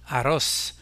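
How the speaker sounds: arroz stressed on RROZ; Spanish arroz, accent on the final syllable; stress on last syllable. Shown as a demonstration. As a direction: say a-RROZ with the weight at the end. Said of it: "L'accent portera donc sur la dernière syllabe".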